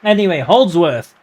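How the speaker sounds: breathless commentary; running short of air; out of breath. Real, not acted. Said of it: "I'm running out of breath here".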